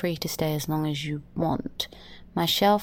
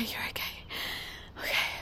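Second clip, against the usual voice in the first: much softer, a near-silent whisper; whispered reassurance; 8 dB quieter, much faster than usual. Acted. Alone after the nightmare, Lydia tells herself she's fine in a whisper. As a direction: soothe yourself under your breath.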